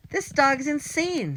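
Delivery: high, loud, slow panicked scream. A narrator's reading. Villain attacked by the dog, screaming in panic. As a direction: shriek it while wrestling the dog. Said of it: "screamed Mister Bradford".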